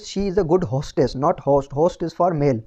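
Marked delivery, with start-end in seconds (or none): 0.0-1.2 the corrected line read out very slowly; slow dictation. Shown as a demonstration. Teacher slowly dictates the corrected sentence to class. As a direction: spell it out for the class, word by word. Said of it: "correct version is".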